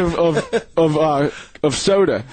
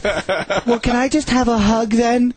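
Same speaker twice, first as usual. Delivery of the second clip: higher mock pleading voice; mock girlfriend; 7 semitones higher, slower than usual. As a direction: ask for a hug, higher and coy. Quoting the girlfriend's request.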